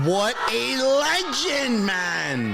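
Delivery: high, slow, cheering praise; delighted cheer. Real, not acted. Streamer cheering the answer, slow high delight. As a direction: cheer him on like a fan.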